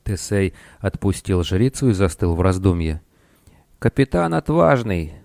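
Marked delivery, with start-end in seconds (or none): 3.8-5.1 higher-pitched nasal call. A narrator's reading. Babylonian magician hailing the pirate captain, nasal voice. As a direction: call out through the nose. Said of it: "раздался вдруг знакомый гнусавый голос".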